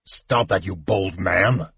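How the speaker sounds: a big man lightly playing coy, slow; hammed-up coy protest; mock simpering. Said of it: "Caramon simpered".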